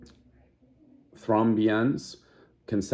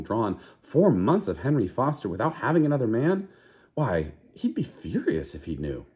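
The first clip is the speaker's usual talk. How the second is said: higher, lightly fretful friend; serious warning; 4 semitones higher than usual. Acted. Fanny warning Lenina about one man, in a higher fretful voice. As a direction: fuss at her like a worried elder sister. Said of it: "with a sudden change of tone".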